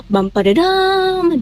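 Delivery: vocal drum roll. Shown as a demonstration. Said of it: "drum roll".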